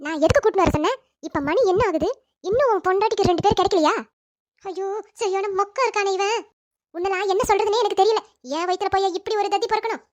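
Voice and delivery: irritated mother telling off her son; exasperated scolding. Acted. (எரிச்சலோடு திட்டுதல்)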